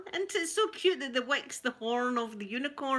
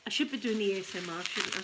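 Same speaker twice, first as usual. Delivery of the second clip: quick self-aside; much faster than usual. Real, not acted. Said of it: "too excited again".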